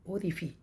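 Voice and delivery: ओरिफी with "-fee" at the end; corrected pronunciation of orifice. Shown as a demonstration. Teacher gives the correct valve word, ओरिफी ending "fee". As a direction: say ओरिफी, no "s" sound. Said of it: "जबकि correct जो pronunciation है".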